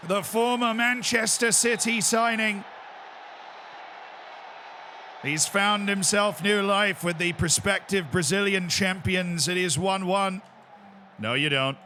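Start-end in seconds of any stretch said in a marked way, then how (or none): 0.1-10.4 measured commentator recap; composed play-by-play after the goal; football commentary. Pretend. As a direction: fill in the player's story like a match commentator. Continues the commentator act.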